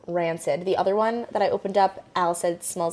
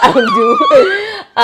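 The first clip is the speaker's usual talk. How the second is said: slow, high, put-on Spanish accent; 13 dB louder, much slower than usual. Real, not acted. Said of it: "why am I Spanish accent".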